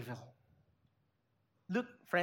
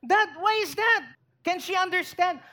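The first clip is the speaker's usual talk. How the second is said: put-on higher, louder upset kid question; child asking dad why the puppy ran off, higher; 4 semitones higher, 4 dB louder than usual. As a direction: ask dad like a bewildered child.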